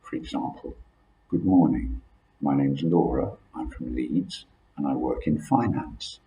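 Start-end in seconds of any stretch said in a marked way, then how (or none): 1.3-6.2 formal and polite. Shown as a demonstration. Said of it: "you want more polite language".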